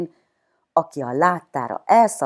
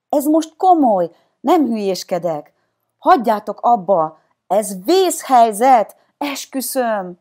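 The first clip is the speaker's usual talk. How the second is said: high, loud, urgent insistence; desperate pleading; 8 semitones higher, 7 dB louder than usual. A narrator's reading. Child begging friends to believe the danger, desperate. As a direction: plead desperately to be believed, stretching the last words. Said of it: "a kétségbeesést a hangjában".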